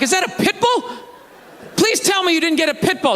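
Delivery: freaking out. Retold or imitated. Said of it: "I start freaking out".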